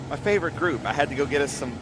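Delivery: winded after running around; talking while catching breath. Real, not acted. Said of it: "I'm a little out of breath".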